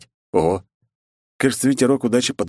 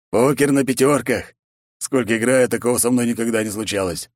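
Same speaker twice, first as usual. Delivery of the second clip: excited exclaim; 4 semitones higher than usual. Acted. Zaruba marvels at his hand, a mild excited exclaim.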